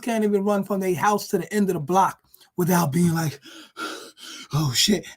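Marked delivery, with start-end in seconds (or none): 3.8-5.1 gasping wheeze before a weary "Oh shit"; mock out of breath. Smoker runs to the end of block, mock winded gasp. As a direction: play a smoker who is winded after one block. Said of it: "out of breath".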